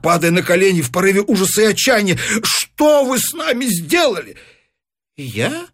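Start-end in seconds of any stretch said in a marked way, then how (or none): 2.4-4.4 higher, desperate question; a touch of horror; mild despairing cry. A narrator's reading. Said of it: "вскричал художник". 5.2-5.7 soft surprised question; quiet feigned surprise; old man feigns surprise, softly. A narrator's reading. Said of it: "удивился старик".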